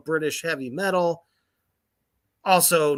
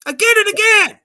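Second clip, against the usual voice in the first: high loud metal shout; metal scream; 12 dB louder, faster than usual. Pretend. Reading lyrics as a scream.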